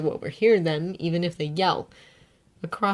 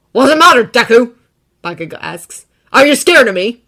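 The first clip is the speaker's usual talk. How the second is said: taunting; 5 semitones higher, 14 dB louder than usual. A narrator's reading. Bakugo taunting.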